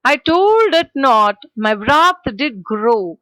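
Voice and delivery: slow, weighty poem line; poem recitation. Shown as a demonstration. Teacher reciting the line to the class. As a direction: draw out each word of the verse.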